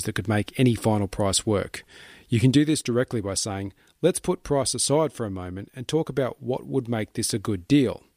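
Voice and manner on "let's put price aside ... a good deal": friendly, upbeat suggestion; encouraging tone. Shown as a demonstration. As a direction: nudge them along warmly, lifting on deal. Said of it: "in an encouraging tone of voice".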